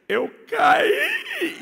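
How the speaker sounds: small son sobbing out his answer; crying child. Retold or imitated. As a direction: whimper it like a hurt little boy.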